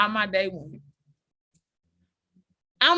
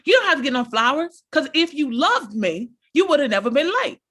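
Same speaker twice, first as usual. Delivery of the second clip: mock outburst; 3 semitones higher, 3 dB louder than usual. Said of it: "Sarah busts out".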